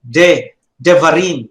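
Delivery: "devarim" with a very short "de", accent on "rim"; very short first vowel. Shown as a demonstration. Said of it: "so very short".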